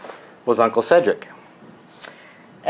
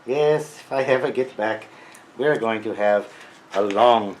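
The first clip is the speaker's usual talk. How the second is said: put-on Freudian accent. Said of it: "this crazy Freudian accent".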